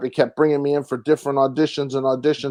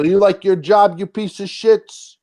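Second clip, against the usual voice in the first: mock gangster threat; 5 semitones higher than usual. Acted gangster line from his role.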